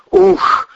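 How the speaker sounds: high, loud shocked gasp out; sharp exhale. Acted. Cousin shocked by what he did, loud exhale. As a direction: let out a shaken breath. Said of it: "выдохнул Ковторанг".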